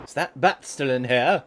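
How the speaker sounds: ordinary talk, nothing marked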